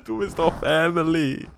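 high, loud mock indignation; hammed-up offended partner; mock girlfriend protest. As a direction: act out the partner's outraged insistence. Acting girlfriend insisting on family.

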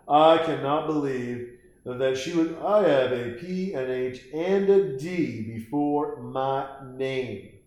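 smug, fast, self-important doctor, lightly voiced; a hint of an offended expert; arrogant doctor. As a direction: sneer it like a pompous know-it-all. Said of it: "like an arrogant prick with his hands crossed going".

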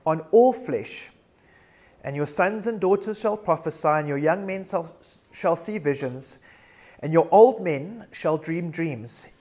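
declamatory Bible reading with weighted phrases; scripture reading. Acted. Preacher reads Acts to the congregation, measured proclamation. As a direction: read it out as proclamation, pausing between phrases.

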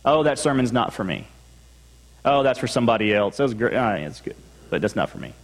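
casual mock dismissal trailing off; dismissive brush-off. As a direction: wave the sermon away as if it's someone else's problem. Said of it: "Are you dismissive?".

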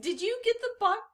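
burp caught in the throat. Real, not acted. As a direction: talk through a burp. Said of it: "Oh, sorry, I got a burp".

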